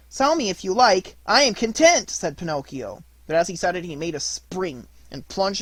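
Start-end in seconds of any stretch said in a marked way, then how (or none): 0.1-2.1 higher, louder cheeky reply; defiant puppet. Acted. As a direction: toss it back carelessly. Pinocchio defiant.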